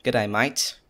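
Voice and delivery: lightly put-on Australian accent; casual mock-Australian accent. Shown as a demonstration. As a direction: try a classic Aussie greeting accent. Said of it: "display my Australian accent to you".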